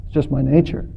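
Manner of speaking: low, fading reply; drowning scorpion. Acted. Drowning scorpion explaining the sting to the turtle, low and fading. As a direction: let the words sink away softly at the end. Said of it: "The drowning scorpion replied".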